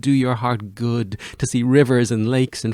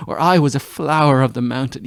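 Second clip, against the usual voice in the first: louder, swelling declaration; exultant; 7 dB louder than usual. Acted. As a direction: proclaim it joyfully. Echoing his words, now exultant.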